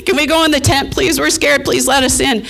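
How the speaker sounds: voicing the dogs. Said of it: "They're like".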